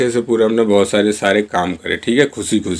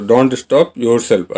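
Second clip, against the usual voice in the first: slow model sentence; much slower than usual. Shown as a demonstration. Teacher modelling the English line for Hindi learners, very slow. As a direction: say each word slowly and clearly. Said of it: "teacher repeats model sentence".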